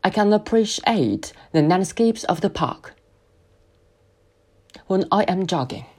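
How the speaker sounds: slow, "appreciate" stressed. Shown as a demonstration. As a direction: lean on "appreciate" and pause before "when". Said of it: "appreciate这个词再次做强调". (慢速，重读"appreciate")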